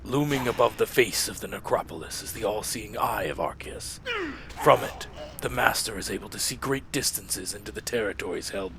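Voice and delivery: Lich King voice. Acted. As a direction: intone like a cold undead king. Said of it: "I'm trying to get the Lich King voice back".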